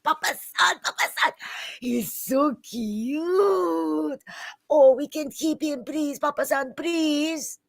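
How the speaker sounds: put-on high, excited girlish pleading; gushing young princess. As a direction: beg your father sweetly and eagerly. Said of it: "she stay all like".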